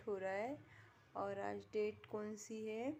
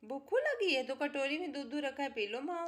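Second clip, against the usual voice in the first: louder cooing; 3 semitones higher, 5 dB louder than usual. Real, not acted. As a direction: coax the pet to drink. Baby talk to pet.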